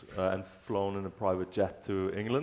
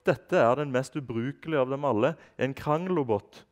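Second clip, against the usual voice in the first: contempt; 6 semitones higher, 6 dB louder than usual. Acted. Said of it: "sa han med forakt i stemmen".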